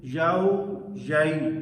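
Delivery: یاؤ with a-w glide, then یائی with a-i glide; correct pronunciation. Shown as a demonstration. Teacher modelling both diphthongs for students. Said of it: "درست لفظ کا تلفظ یہ ہے".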